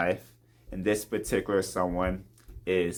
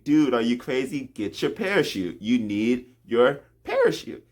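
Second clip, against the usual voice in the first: higher, mildly exasperated retold warning; mock alarmed urging; 4 semitones higher than usual. Pilot to reckless skydiver, urgently imploring. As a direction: play the pilot pleading for sense. Pilot urges jumper to take parachute.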